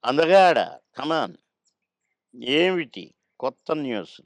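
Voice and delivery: cheerful elder actor voice; Akkineni impression. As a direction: greet him playfully as handsome. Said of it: "Akkineni గారు నన్ను ఎప్పుడు అందగాడనే పిలిచేది".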